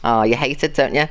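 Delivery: ordinary talk, nothing marked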